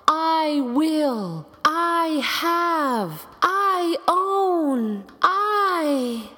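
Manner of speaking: high, drawn-out declarations; lofty self-mocking boast, stretched out; grand boasting. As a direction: proclaim each claim in long, high, swooping notes. Grand list of dream boasts.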